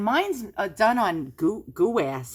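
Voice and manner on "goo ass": "goo ass" said as two words, goo then ass; New York pronunciation. Real, not acted. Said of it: "my New York accent".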